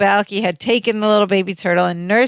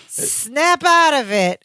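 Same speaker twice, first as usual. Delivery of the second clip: higher, slow mock plea; a hammed-up cry to snap him out; pleading Larry; 6 semitones higher, slower than usual.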